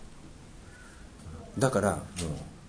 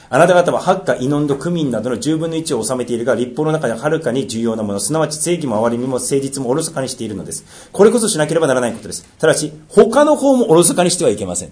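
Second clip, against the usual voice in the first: measured, solemn Bible reading; scripture reading. Acted. Pastor reading scripture to the church, solemn and measured. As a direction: read the law aloud to the congregation. Reads Matthew aloud.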